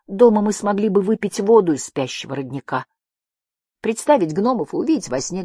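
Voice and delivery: high, small creature voice; tiny high-pitched voice; thin little voice. A narrator's reading. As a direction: pipe it up timidly, high. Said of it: "раздался тоненький голосок".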